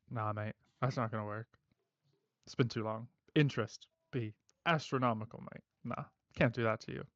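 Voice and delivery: lightly voiced Australian-ish heavy; calm threat with a hint of northern twang; collector's accent. Collector offering Pele a final job, lightly accented calm menace. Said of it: "I like his accent".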